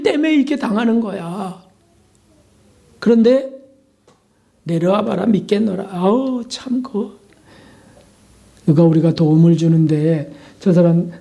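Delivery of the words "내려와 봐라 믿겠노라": drawled mocking taunt. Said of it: "이렇게 또 조롱하네요".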